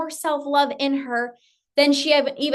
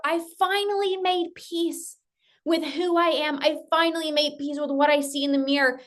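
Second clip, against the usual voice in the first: upbeat quoted self-talk; 3 semitones higher than usual. Retold or imitated. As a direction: sound like you finally feel good. Client's happy self-talk quoted.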